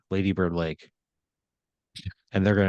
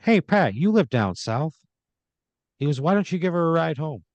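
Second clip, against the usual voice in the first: pitched way up, slyly pushing Pat to drive her; Michael voice; 8 semitones higher, 3 dB louder than usual. Acted.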